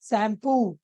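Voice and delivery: शैम्पू with a long, stressed final POO; stress on last syllable. Shown as a demonstration. Teacher showing end stress, शैम्पू stressed on final पू. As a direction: lean on the पू in शैम्पू. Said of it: "वो हम last में दे रहे हैं".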